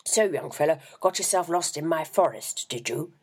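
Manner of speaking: chummy with a hidden edge; pleasant chatting. A narrator's reading. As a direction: reverend teasing the lost boy, falsely jovial. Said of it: "he started chatting pleasantly enough".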